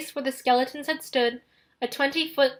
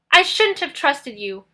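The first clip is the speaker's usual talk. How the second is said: voice breaking; 4 semitones higher, 5 dB louder than usual. Acted. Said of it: "His voice broke".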